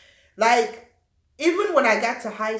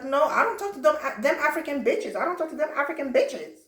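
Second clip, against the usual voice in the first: put-on sneering girl; 5 semitones higher than usual. Retold girl's insult.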